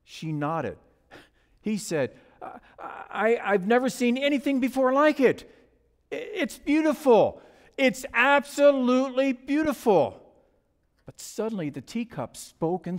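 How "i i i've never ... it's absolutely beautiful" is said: higher, stammering admiration; awed admiration. Acted. Husband spotting a teacup in a china shop, admiring. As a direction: marvel at it with lifted pitch.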